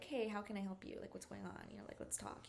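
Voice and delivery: soft, caring check-in; nurturing. Retold or imitated. Empath checking on someone, nurturing and soft. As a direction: gently offer a listening ear. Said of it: "very nurturing".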